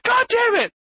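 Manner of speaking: high, loud mock outburst; retold exasperation. Dad watching with the bottle in hand, exasperated. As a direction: yelp the curse in acted frustration. Acts frustrated viewer feeding baby.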